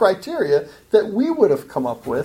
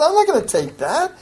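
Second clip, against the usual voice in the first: higher, firm voice of God turning it down; God refusing; 9 semitones higher than usual. Acted. Preacher voices God rejecting showy fasting, firm refusal. God's voice refusing false worship.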